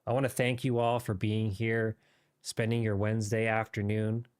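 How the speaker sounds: light British RP gaming voice; modern british accent. Pretend. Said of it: "there's my mini R P voice".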